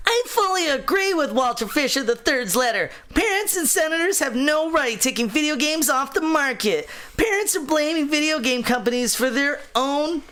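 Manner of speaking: put-on high, bratty little kid voice; seven-year-old kid. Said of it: "this kid sounds like he's seven".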